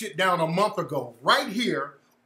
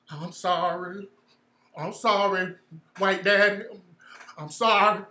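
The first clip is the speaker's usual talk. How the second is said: soft, lower whimpered sorry; bow and scrape, mocking; groveling mock apology; 3 semitones lower, 3 dB quieter, slower than usual. Mocking the caller groveling to white daddy, soft. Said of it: "The way he talking".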